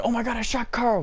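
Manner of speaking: high-pitched melodramatic cry; mock horror. Re-enacts the funny horrified line.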